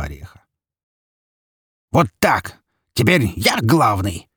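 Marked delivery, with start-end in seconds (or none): 1.9-4.3 slow triumphant cry with falsetto break; cried out, cracking. A narrator's reading. Petka crying out to his dead father, voice breaking. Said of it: "выкрикнул мёртвому Миколе Петька, сорвавшись на слове «я» на фальцет".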